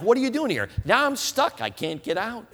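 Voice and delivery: high panicked squeak; mock panic. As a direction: squeak it out like you're trapped. Panicked thought once locked in.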